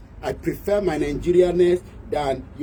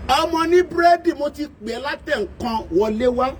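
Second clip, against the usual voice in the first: high hail to a bread seller; calling out to a hawker; 8 semitones higher than usual. Retold or imitated. Buyer calling a child selling bread into the house, high calling voice. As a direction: hail the bread girl and call her in.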